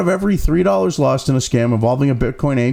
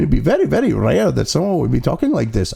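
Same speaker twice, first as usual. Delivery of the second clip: mock Indian accent; 3 semitones lower than usual. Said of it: "When the person is talking like this".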